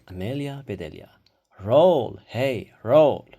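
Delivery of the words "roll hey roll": loud call as if to a pet. A narrator's reading. Amelia Bedelia calling the bread roll in front of the class, loud. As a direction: summon the roll like a dog.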